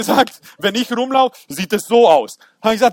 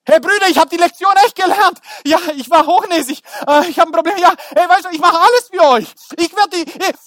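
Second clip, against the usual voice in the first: pleading; 7 semitones higher, 4 dB louder than usual. Acted. Joseph pleading with his brothers.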